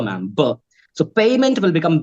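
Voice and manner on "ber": Arabic-accented "ber", b for p. Shown as a demonstration. Trainer imitating Arabic students, accented "ber". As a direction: turn per into "ber", Arabic style. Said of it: "per becomes ber".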